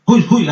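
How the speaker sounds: short shepherd's "hui hui"; imitated herding call. Shepherd turns a straying sheep, imitated herding call. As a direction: call off a straying sheep with a quick double cry. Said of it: "అనాలంతే".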